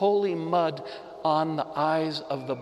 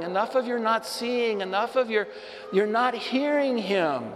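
stern God; 6 semitones higher than usual. Retold or imitated. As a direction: tell him off like a fed-up father. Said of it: "God's voice from heaven comes down and says".

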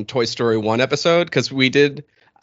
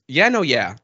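easy, level yeah-no-yeah in the usual pitch; casual "yeah, no, yeah". Shown as a demonstration. Host shows friends their habit slightly wrong, casual. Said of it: "I'm doing it incorrectly".

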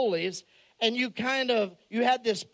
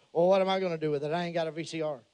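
trucker voice; 5 semitones lower, much faster than usual. Retold or imitated. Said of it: "And he goes".

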